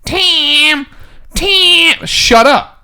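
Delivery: high-pitched mock nag, climbing on each call; Jill's nagging voice. Host mimicking the sitcom wife calling her husband, high nagging voice. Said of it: "she always had that voice".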